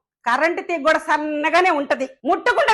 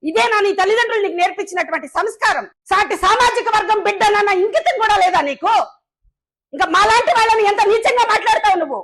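indignant rebuke; 4 semitones higher than usual. Real, not acted. Angry rebuke of rival.

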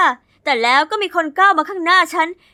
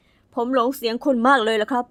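smitten suitor; 4 semitones lower, 4 dB quieter than usual. Acted. Felix kneels, asks her out.

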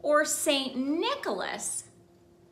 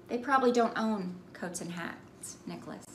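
sad parents; 3 semitones lower, 6 dB quieter, faster than usual. Acted. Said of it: "they said".

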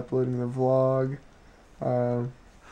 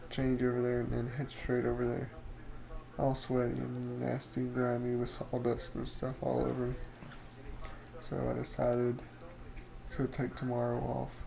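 slight lisp from a retainer; talking with a retainer in; 8 dB quieter than usual. Real, not acted. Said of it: "I may have kind of a lisp".

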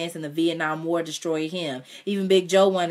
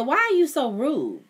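higher, slow reproach; scolding mother; 9 semitones higher, 4 dB louder than usual. Acted.

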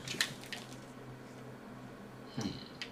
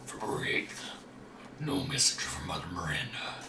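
a lightly lowered voice reading a diary; deepest voice; 3 semitones lower than usual. Pretend. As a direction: read the notes in your deepest voice. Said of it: "deepest voice you can".

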